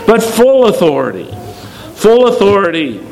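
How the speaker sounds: "full" pitched high, then falling; stress on full. Real, not acted. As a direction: hit "full" in contrast to partial. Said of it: "I just want to emphasize the words".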